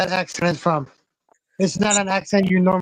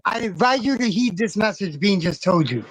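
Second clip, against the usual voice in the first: formal message read. Acted. To Punisher, reading out Bean's warning in mock formality. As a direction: read it like an official notice. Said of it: "read this message".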